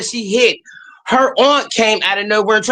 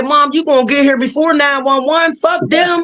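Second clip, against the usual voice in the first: mock kid shout; 5 semitones higher than usual. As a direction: shout it like a sure teenager. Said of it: "They said".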